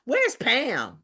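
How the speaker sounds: drawn-out slow asking; slow, deliberate question. Retold or imitated. Speaker retelling her first question to Queen, slow and pointed. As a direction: lean into each word slowly. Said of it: "the first thing I said is".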